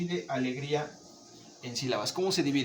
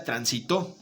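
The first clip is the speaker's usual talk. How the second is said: transitó with the final syllable stressed; 3 semitones lower, slower than usual. Shown as a demonstration. Teacher contrasting word meanings by stress, TÓ stressed. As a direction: say transitó, tran-si-TÓ. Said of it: "También se escucha bien".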